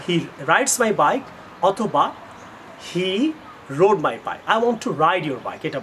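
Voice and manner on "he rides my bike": slow model sentence. Shown as a demonstration. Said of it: "So try to say".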